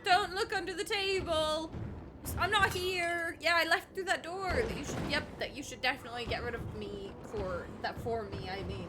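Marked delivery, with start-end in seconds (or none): 0.0-4.6 loud, high frantic hiding plea; mock panicked hiding voice. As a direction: squeal it like you're hiding. Voicing hiding character.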